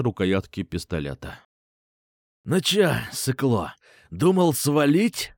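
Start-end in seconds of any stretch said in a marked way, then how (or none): 2.4-5.3 gloating, drawn-out taunt; smug hiss. Acted. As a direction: sneer at him, pleased with yourself. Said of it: "довольно прошипел чувак".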